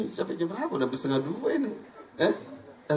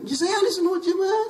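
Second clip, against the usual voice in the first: high and louder, the claim repeated through a laugh and whine; laughing protest; 4 dB louder than usual. Retold or imitated. Kiai repeats his claim to the preacher, laughing and whining. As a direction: say it again, almost laughing, almost whining.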